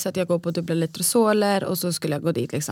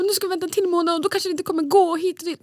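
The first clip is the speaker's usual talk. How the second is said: retold anger; 11 semitones higher than usual. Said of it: "och jag var så arg".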